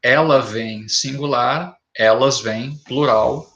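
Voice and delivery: Ele tem and eles têm said slowly side by side; careful teacher contrast; slow contrast demo. Shown as a demonstration. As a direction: set tem against têm slowly for students. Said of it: "leva acento".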